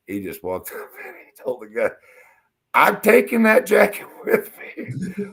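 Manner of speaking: loud, high quote broken by laughter; laughing retelling. Real, not acted. Retelling Tree taking the jacket, laughing. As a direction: crack up while quoting the demand.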